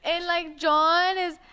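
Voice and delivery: put-on high, drawn-out Scouse accent; mock Scouse, pitched right up; Scouse girl impression. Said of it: "she very much talks like this".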